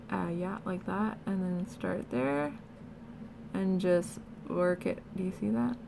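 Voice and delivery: talking with jaw held open; mouth propped open. Real, not acted. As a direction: speak with mouth stuck open. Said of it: "while holding my mouth open".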